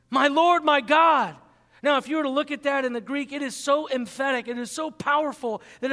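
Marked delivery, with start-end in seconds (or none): 0.1-1.4 louder, overwhelmed exclamation; awed cry. Acted. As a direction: cry out in awe. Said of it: "Thomas falls down".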